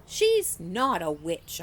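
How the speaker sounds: loud, slow, insistent; loud, slow correction of the boys; firm denial. Acted. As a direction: plant your feet and deny it. Girl defends Gloria to taunting boys.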